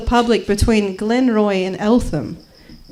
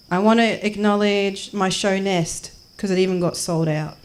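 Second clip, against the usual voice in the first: measured, earnest poem delivery; spoken-word recital. Acted. Comedian reciting her own piece, measured earnest recital. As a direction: recite it as a list with pauses.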